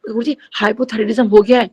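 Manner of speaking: retold attempt to speak up, fully voiced. Devotee repeating herself to Guruji, speaking up a little. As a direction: mildly raise the voice to be heard. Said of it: "मैंने थोड़ा जोर से ऊंची बोला".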